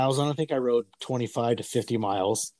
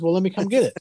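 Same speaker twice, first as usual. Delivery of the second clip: pleading; 9 semitones higher, 4 dB louder, faster than usual. Retold or imitated. Pleading with dad for the bike.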